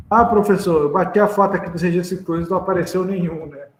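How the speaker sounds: high, fast pleading student. Acted. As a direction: play the eager student asking. Teacher voicing a student.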